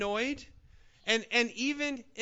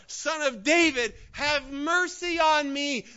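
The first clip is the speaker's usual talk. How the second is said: loud, pleading cry for mercy; shouting louder; 5 semitones higher, 4 dB louder, slower than usual. Retold or imitated. Blind man shouting over the rebuking crowd, loud pleading. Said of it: "he shouted all the more".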